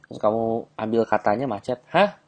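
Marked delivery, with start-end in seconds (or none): 1.9-2.2 high, exaggerated disbelief; teasing reply to a complaining girlfriend, mock surprise. Shown as a demonstration. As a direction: act shocked at her complaint.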